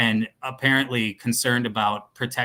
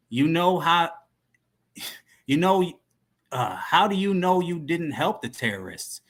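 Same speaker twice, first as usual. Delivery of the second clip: higher-pitched questioning dealer; criminal voice; 6 semitones higher than usual. Acted. Dealer challenging his contact about terrorists, high put-on voice. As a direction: question him in a raised, put-on voice. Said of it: "he'll be like the criminal voice".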